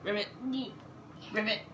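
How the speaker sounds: light mock frog croak; frog ribbit. Parent croaking like a frog for the child. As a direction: parent playing frog for the toddler. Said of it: "He says".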